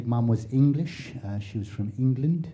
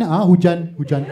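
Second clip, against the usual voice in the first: echoing mom; 4 semitones higher, 7 dB louder than usual. Retold or imitated. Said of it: "repeat the last word they say".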